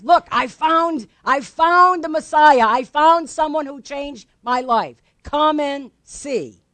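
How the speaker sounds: loud, emphatic announcement of a discovery; excited testimony. Acted. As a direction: testify with drawn-out, punched words. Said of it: "Goes and testifies".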